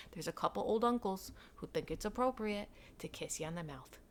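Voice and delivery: a gossiping whisper dropping to a hush; scandalised whisper. Real, not acted. Telling listeners about kissy old uncles, a gossipy whisper.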